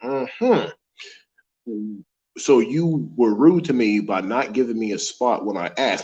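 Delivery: ordinary talk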